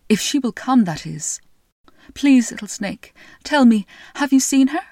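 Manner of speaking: a tired king begging for news; a lightly voiced king, urgently asking; pleading king.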